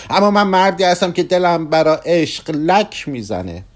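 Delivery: a middle-aged man begging for romance; Kugelmass, restless, pleading. Acted.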